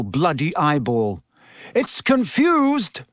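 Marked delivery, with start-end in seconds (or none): 1.8-3.0 high, slow narrated shout; Professor Lupin. A narrator's reading. Teacher calling to the class mid-fight, high shout. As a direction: call it out with pitch raised, volume contained. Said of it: "shouted Lupin".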